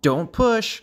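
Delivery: high little frog protest; young frog calling out. A narrator's reading. A third frog in the crowded pond, high protesting call. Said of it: "called a third".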